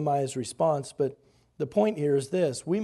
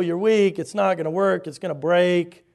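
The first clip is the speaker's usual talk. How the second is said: ridicule; 4 dB louder than usual. Acted. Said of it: "As people ridicule the work".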